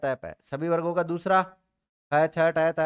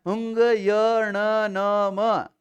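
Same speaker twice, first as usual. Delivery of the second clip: अंग, य, ण, न, म said very slowly and clearly for pupils to copy; slow model recitation; 3 semitones higher, 4 dB louder, much slower than usual. Shown as a demonstration. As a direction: spell each sound out slowly for the class. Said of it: "मैं बोल रहा हूँ ना". (धीरे-धीरे साफ़ बोलकर सिखाना)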